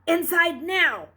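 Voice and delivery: high, loud and slow, a frightened mother's command; fearful order. Acted. Mother fearfully calling Luke inside from the woods. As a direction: call him in, scared. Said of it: "his mother was fearfully ordering him".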